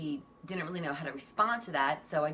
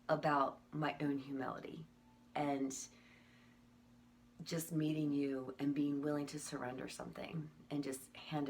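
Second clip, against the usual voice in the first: soft, lower, halting with long pauses; quietly moved, letting each phrase land; heartfelt sincerity; 3 semitones lower, 6 dB quieter than usual. Retold or imitated. Speaker tells the caller how much the gift means, heartfelt and soft.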